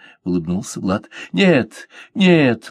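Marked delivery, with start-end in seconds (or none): 1.3-2.7 high, louder heated denial; girl protesting the captain's modesty, heated high denial; fervent exclamation. A narrator's reading. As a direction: protest hotly. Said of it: "горячо воскликнула она".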